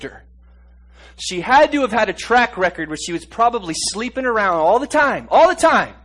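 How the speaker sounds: preacher lifting the congregation with a loud, high pitch; preaching at full force. Acted. Preacher to his congregation about the adulteress, preaching loud.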